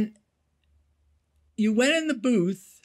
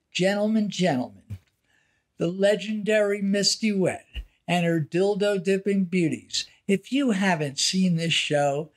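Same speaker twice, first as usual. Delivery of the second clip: carnival barker; 3 semitones lower than usual. Retold or imitated. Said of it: "the guy would tease him and say".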